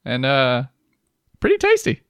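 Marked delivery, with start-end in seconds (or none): 1.4-2.0 high put-on verdict voice; mock reviewer. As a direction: deliver it like a smug food critic.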